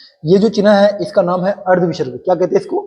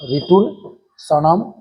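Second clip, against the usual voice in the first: slow recitation; much slower than usual. Shown as a demonstration. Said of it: "teacher repeats it slowly".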